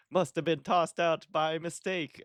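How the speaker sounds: a high, hammed-up New York accent that slides toward Italian, punching "tossed"; New York garbage man done like Mario's cousin; overdone New York accent drifting into Italian; Italian-sounding New York accent. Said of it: "Was that Mario's third cousin?".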